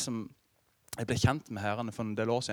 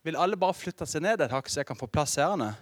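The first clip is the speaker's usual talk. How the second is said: retold shout to the passengers, half-performed; mild mock shout; 6 semitones higher, 6 dB louder than usual. Matt calling to the packed subway car, mild mock shout. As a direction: call it out louder and higher to the whole carriage. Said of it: "etter han har ropt ut".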